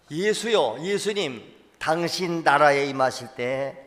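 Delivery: 1 loud, high plea to Jesus; 1 call out desperately to Jesus; 1 pleading cry. Acted. 1 the dying thief begs Jesus to remember him, loud.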